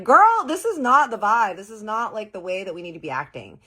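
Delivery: hammed-up indignation; girl this is not the vibe, loud; outraged. Venting to friend about Harley.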